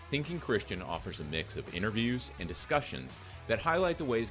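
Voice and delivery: measured, polished announcer delivery; podcast intro read. Acted. Host welcomes listeners to Thinking Christian, scripted intro read.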